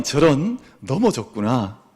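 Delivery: slow, even "저런. 넘어졌구나." without alarm; calm and gentle. Shown as a demonstration. Parent calmly soothing a fallen child, gentle and slow. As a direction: say "넘어졌구나" slowly and evenly, like nothing bad happened. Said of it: "평안하게 이렇게 이야기를".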